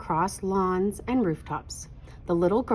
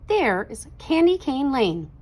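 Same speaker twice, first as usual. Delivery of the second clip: excited shout; 6 semitones higher, 4 dB louder than usual. A narrator's reading. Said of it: "shouted the choir boy".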